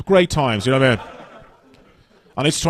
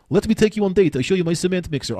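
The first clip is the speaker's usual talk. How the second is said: mock Polish suitor; 5 semitones higher than usual.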